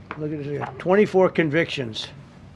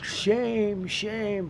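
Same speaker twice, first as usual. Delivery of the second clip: mock opera-singer scream; 6 semitones higher than usual. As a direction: imitate a protester shrieking like an opera singer. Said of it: "She's screaming".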